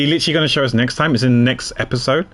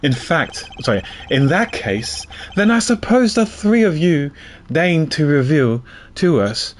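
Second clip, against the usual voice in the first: prosecutor character voice; 3 semitones higher than usual. Acted. Reads prosecutor character lines.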